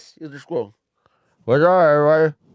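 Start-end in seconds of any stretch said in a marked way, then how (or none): 1.5-2.4 put-on louder muffled mumble, as if mouth is stuffed. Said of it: "you'll just sound like this".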